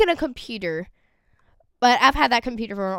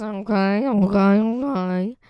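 voice cracking; slower than usual. Real, not acted. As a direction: voice breaking on the okays. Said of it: "my voice is changing just a little bit right now".

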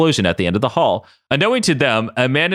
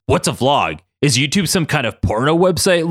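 slightly raised, puzzled questions; honestly curious; 5 semitones higher than usual. Acted. Logan asks Ryan about YouTube, honestly curious. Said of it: "honestly curious".

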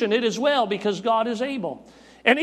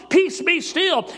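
commanding shout; 5 semitones higher, slower than usual. Acted. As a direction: order the sea to calm, each word drawn out. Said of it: "and he spoke".

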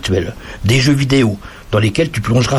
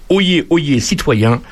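town crier; 3 semitones higher, much slower than usual. Acted. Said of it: "à la joie de clamer".

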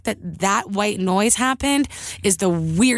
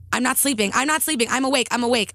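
retold panicky insistence, pitch raised; freaking out; 3 semitones higher than usual. Retelling a protest to the voice in her ear, freaking out. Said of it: "was freaking out".

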